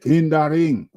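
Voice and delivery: quoting Macaulay with a pitch lift; a hint of Macaulay calling out; imitating Macaulay. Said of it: "Macaulay said".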